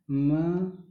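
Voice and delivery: महत्व broken into ma, ha, tva; spelled-out pronunciation. Shown as a demonstration. Teacher showing how the book printed it, syllable by syllable. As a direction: sound out महत्व piece by piece with gaps. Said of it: "यहाँ पे इस तरह से दिया गया था".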